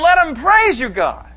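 high, loud, yearning cry; longing plea. Retold or imitated. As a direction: plead it with longing. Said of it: "He's longing for the peoples".

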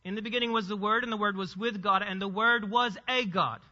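"a" said as a stressed "ay" before "God"; pointed misreading. Shown as a demonstration. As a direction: run through the verse, then lean on "a God". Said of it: "the way J Ws will read this".

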